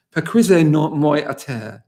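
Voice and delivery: 'Paquisez-moi à terre' said slowly and carefully in French, each syllable placed; careful attempt at the patois phrase; tentative French pronunciation. Shown as a demonstration. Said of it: "I don't know whether I've got this pronunciation right".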